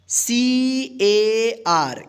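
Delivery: letters spelled out slowly one by one; drawn-out letter-by-letter spelling. Shown as a demonstration. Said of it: "इस ए का आ उच्चारण होगा".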